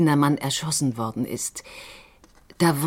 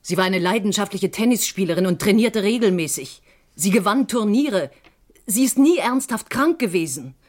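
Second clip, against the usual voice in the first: rising insistence; 4 semitones higher than usual. Acted. Sister defends dead Irene, insistence rising. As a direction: push harder with each sentence.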